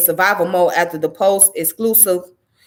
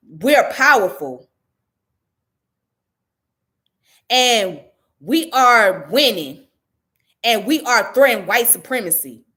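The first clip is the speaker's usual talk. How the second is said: mocking quote. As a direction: drag her words out to ridicule them. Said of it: "what you tell the media is that".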